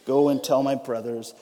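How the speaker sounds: measured, solemn Bible reading; scripture reading. Acted. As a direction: read the passage with gravity. Reads Matthew passage aloud.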